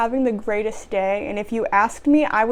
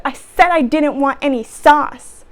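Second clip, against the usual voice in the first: louder, mock angry snap; retold customer shout; 6 dB louder than usual. Customer shouts at the sandwich maker over sauce, mock shout. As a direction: imitate a customer shouting in complaint. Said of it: "literally she shouts at me".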